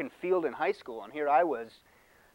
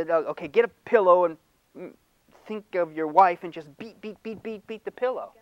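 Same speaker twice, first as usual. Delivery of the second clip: mock therapist advice; 2 semitones higher, 4 dB louder than usual. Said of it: "they'll tell you".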